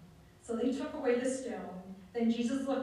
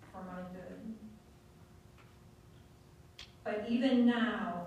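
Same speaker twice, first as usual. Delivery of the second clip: earnest prayer. Acted. Prayer declaration.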